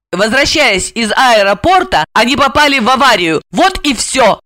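высокий голос героини-домохозяйки; героиня признаётся. Acted. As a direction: confess in a high female character voice. Voices Asya confessing. (высоким голосом, признаваясь во всём)

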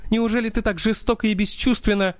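put-on high, panicky young woman's voice; hysterical Stella. A narrator's reading. Stella's voice, horrified.

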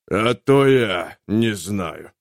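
dying soldier, slow sardonic voice; wounded captain, slow and bitter. Acted. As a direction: drag it out with bitter irony.

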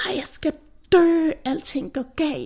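mock panic, hushed and high; panicked inner voice. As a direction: whisper it like you're sure you're dying. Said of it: "Men så den anden, der bare sådan".

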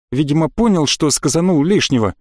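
ordinary delivery, nothing marked

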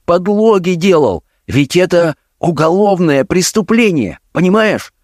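a father's despairing plea, voice climbing; almost in tears. A narrator's reading. Father pleads with his forging son, nearly in tears. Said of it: "начал говорить почти со слезами".

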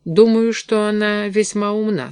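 mildly earnest, frank tone; sincere. A narrator's reading. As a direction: say it with honest appreciation. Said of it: "сказал я искренне".

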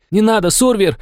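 woman by the wall shouts a plea, high; shouting. Acted. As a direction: call out to stop him. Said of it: "мне закричала какая-то женщина".

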